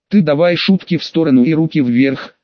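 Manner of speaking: ordinary delivery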